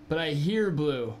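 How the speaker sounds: ordinary talk, nothing marked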